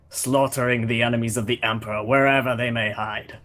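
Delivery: lightly voiced Russian warrior, proud; a hint of a Russian accent, haughty hunter; mild Russian accent, disdainful Draken. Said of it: "I'll just do a Russian accent".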